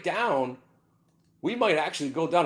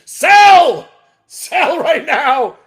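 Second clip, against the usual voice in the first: loud high urgent yell; shouting sell; 10 semitones higher, 17 dB louder, much slower than usual. Real, not acted. Trader shouting at viewers to sell now, loud. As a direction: command it at full volume.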